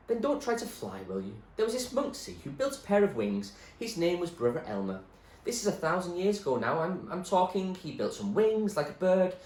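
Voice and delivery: put-on high, loud, rambling old man; old man warns the girl with a monk's tale; eccentric old man. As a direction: tell the tale with odd glee. The speaker tells a story.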